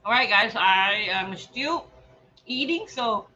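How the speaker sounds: talking with a mouth full of food. Real, not acted. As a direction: chew and talk through a mouthful. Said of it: "my mouth is full right now".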